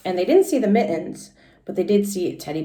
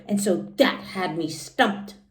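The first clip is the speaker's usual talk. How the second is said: put-on lively little-girl storytelling voice, pitched higher; Junie B. read aloud; 6 semitones higher, 4 dB louder than usual. Teacher reading Junie B. to the class in a high kid voice. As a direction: read it as an excited first-grader telling her story.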